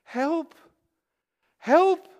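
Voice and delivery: put-on panicked teen yelling for someone to bring a light; retold yelling for help. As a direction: call out into the dark for help. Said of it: "And I started to yell".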